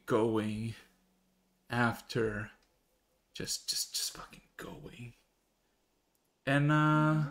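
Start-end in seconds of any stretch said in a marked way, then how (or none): 3.3-5.1 breathy hushed aside; whisper. Real, not acted. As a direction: drop to a whisper. Unvoiced whisper mid narration.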